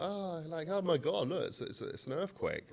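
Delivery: high, startled cry of alarm. Retold or imitated. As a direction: replay the moment you saw the wall crack. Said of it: "you can hear me like".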